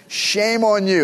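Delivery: scolding grown-up. Retold or imitated. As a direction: wag a finger at a small kid. Parent scolding retold again.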